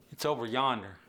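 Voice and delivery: "yonder" in an easy Appalachian lilt; country Appalachian phrasing; Appalachian accent. Shown as a demonstration. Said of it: "whereas Earl's gonna say".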